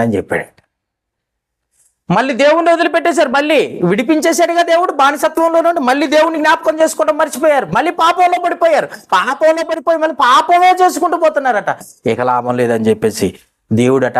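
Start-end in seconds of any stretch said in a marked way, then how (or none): 2.1-11.8 higher, fast fiery preaching; preaching at full force. Real, not acted. Preacher rebuking Israel's relapse, fiery higher preaching. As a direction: drive it home like a revival preacher.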